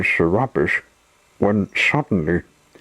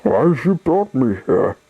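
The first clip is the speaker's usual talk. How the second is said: higher-pitched, worried little captive; anxious question; 5 semitones higher, 3 dB louder than usual. A narrator's reading. Tied-up Sunshine questions his kidnappers, anxiously. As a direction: demand an answer with anxious, raised pitch.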